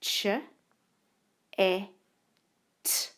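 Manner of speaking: each sound said apart: ch, e, t. Shown as a demonstration. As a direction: segment chat into its sounds. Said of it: "made up of three sounds".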